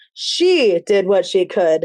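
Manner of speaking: strong stress on the first "she". Describing a book whose chapters shift emphasis: stress on the first word she. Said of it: "it puts emphasis on she".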